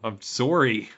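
mock Canadian apology; lightly faked Canadian accent; drifting northern accent. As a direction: plead in a put-on northern accent. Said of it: "going farther north as you're speaking".

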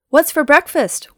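loud, high, drawn-out call; shouting. Acted. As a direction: holler it into the whole room. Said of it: "Will shouted as he came into the lodge".

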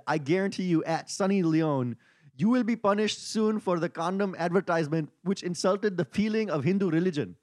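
put-on Indian accent for an angry tweet. Host reads an outraged tweet to co-hosts, Indian accent. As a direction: read it out in a mock Indian accent. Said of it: "Please do your accent for me".

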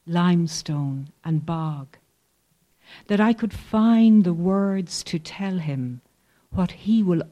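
tender, measured poem recital; slow lines full of longing; poetry reading. Acted. Reads poem about sick father.

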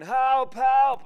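high, loud mock shouts for rescue; imitated cries for help. Drowning Titanic passengers crying out for rescue, imitated shouting. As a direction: call out like someone drowning, acted. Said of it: "they're shouting and screaming".

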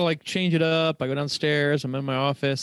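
talking while lying down; lying on side. Real, not acted. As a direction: speak lying on the floor, relaxed. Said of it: "I'm laying on my side on my office floor".

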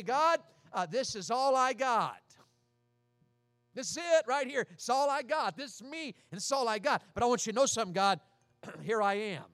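earnest, rising prayer of surrender; sincere prayer. Pretend. Believer praying to God, earnest and sincere. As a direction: pray it like you mean every word.

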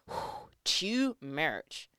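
slow, drawn-out "too much" after a whew; exhale, then stretch it out in exaggerated defeat; mock overwhelmed. Reading the Bible and feeling swamped, mock overwhelmed.

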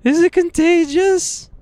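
put-on very high, squeaky child voice; mock a frightened kid's tearful squeak; imitating crying little girl. Little niece asking uncle about his ears, mock crying child voice. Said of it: "she starts crying".

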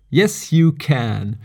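slow, emphatic "yes, you can"; campaign slogan. Pretend. Podcaster playfully tells listeners they can meditate, slow slogan delivery. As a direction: proclaim it like a would-be president, drawing it out. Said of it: "would be one to get president".

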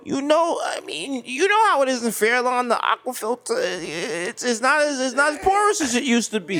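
high-pitched hammed-up Jewish neighbor; Jewish accent. Neighbor advises on hard water, Jewish accent. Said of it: "doing a Jewish accent".

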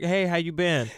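a casual check-in, mildly mimicked; small-talk caller. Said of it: "Just like".

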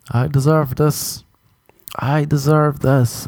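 lightly voiced girl; imitating the girl again. The girl in bed repeating it, slow mock chant. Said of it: "she just kept saying".

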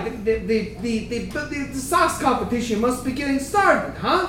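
minotaur character voice. Acted. Minotaur NPC speaking in character.

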